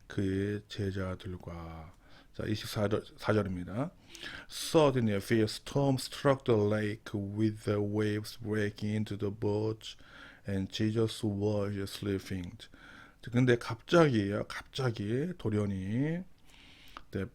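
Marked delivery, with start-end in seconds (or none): 4.5-12.6 slow, careful Bible reading for learners; slow verse reading. Shown as a demonstration. Teacher reading the verse slowly to students. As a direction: read each word slowly so students follow.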